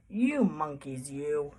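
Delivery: low, slow, stern scolding; quite angry peddler. A narrator's reading. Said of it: "he felt quite angry".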